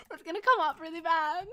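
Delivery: laughing through the words; giggling repeat. Real, not acted. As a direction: crack up while saying it. Laughing while repeating the warning.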